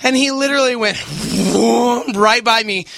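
winded after running uphill; out of breath. Real, not acted. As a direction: talk while catching your breath. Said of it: "I am winded".

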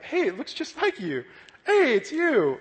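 high acted greeting, rising to a loud cry; excited recognition. Speaker greeting people recognized in heaven, excited recognition. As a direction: hail someone you've just recognized, playfully overdone.

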